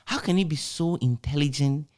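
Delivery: half-laughing, half-marvelling at his messy writing; amused disbelief. Retold or imitated. To the host, about a colleague's handwriting, laughing disbelief. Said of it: "I keep thinking to myself".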